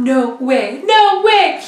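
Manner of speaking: excited disbelief. Retold or imitated. Jumping up and down.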